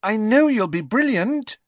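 high, loud encouragement; calling out. Acted. Lavender encourages Ron before the match, high loud call. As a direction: cheer a friend on from down the table. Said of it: "called Lavender".

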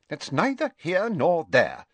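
coldly. A narrator's reading. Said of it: "said Ogden coldly".

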